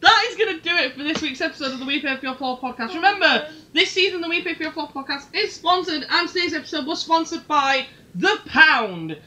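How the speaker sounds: brisk announcer patter slowing at the end; formal sign-off read; podcast sponsor read. Pretend. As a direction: rattle off a mock sponsor message. Reads the sign-off and sponsor message.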